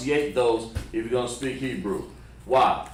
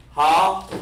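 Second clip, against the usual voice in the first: "Ha" held high and loud on its own; loud, drawn-out standalone "Ha"; sounded by itself; 5 semitones higher, 6 dB louder than usual. Shown as a demonstration. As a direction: isolate "Ha" as one long, raised syllable. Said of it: "by itself".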